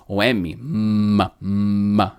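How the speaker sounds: slow hummed m; humming m. Shown as a demonstration. Teacher demonstrating a voiced m. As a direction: hold the m with voice. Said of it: "Esse som de m com a voz".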